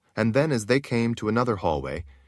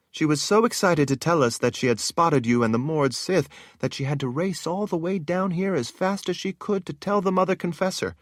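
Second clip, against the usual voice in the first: put-on higher, light young woman's voice; eager palace woman; 7 semitones higher than usual. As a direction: chatter like exciting gossip. Narrator voices Ginny.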